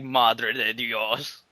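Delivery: slow drawn-out dismay; mock dismay, very slow; slow awed Mexican. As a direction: let it out slowly in horror. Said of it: "the Mexicans are like".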